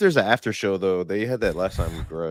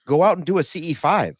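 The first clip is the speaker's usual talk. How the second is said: retold screaming; 5 semitones higher than usual. Retelling early posts urging people on X, mock screaming. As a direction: urge them on in a raised, pitched-up voice. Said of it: "I was screaming like".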